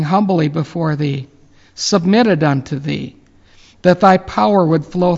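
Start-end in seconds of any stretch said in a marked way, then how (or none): none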